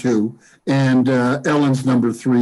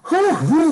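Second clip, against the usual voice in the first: imitated phew sighs. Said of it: "Was that you going".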